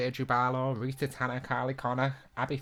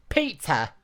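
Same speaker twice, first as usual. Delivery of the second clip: high, loud call of a name; put-on voice, pitched up and louder; character impression; 7 semitones higher, 7 dB louder than usual. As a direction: mimic a character shouting for someone. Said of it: "that's all I can remember saying".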